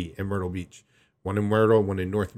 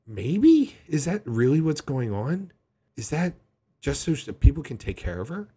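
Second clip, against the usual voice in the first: incredulous reply; 5 semitones higher than usual. Retold or imitated. Reacting to sister's text.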